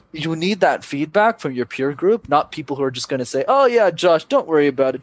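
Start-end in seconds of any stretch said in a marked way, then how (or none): 3.5-5.0 high, breezy imitation of a friend; imitating an easy-going, uncritical pal; mock reassurance. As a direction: brush it off in a higher voice. Imitating friends who falsely reassure.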